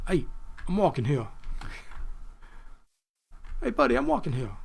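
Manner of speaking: mock Boston street yell, badly faked; bad Boston accent. Gamer heckling an imaginary passerby, in a badly faked Boston accent. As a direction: pitch it up in a hammy, fake Boston accent. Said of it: "my bad attempt at a Boston accent".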